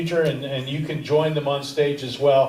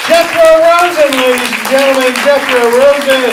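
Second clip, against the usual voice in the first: loud, higher announcer calls, names stretched out; stage announcer; 11 semitones higher, 10 dB louder than usual. Acted. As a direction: boom each name out to the room like an emcee. Host announces comics to stage.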